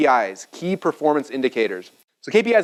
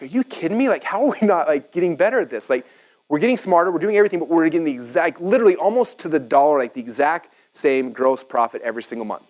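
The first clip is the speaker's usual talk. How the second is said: mild mock outrage, pitched up at first; retold exasperation; 3 semitones higher than usual. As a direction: protest in disbelief at getting nowhere. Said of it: "I got pissed".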